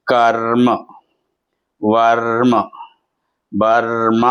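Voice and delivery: కర్మ, వర్మ, బర్మ with a held, rolled r; half-r demonstration. Shown as a demonstration. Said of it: "రా సగం పలకాలి అన్నప్పుడు".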